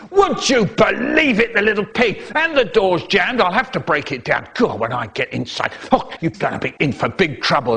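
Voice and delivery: mock roar. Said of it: "My dad is roaring".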